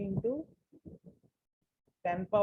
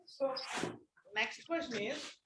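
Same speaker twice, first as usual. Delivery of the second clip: faint, hard to hear; barely audible; 12 dB quieter than usual. Real, not acted. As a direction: voice barely reaching the mic. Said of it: "Sir, your voice is not audible".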